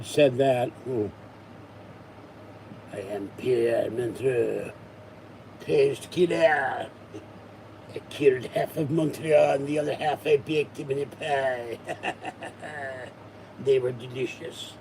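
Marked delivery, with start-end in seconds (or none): 2.9-14.7 a cartoon French killer bragging; deliberately terrible French accent; bad French accent. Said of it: "I talk in a very bad accent".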